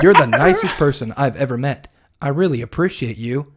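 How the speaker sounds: lightly put-on odd character voice; weird voice. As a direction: imitate a grateful visitor in a slightly weird voice, amused. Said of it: "It's just a weird voice".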